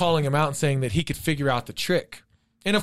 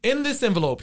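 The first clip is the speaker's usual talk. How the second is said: challenging illusionist; 7 semitones higher than usual. Retold or imitated. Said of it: "so he said".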